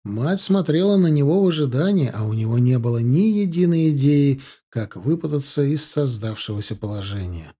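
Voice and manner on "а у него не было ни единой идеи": ordinary delivery, nothing marked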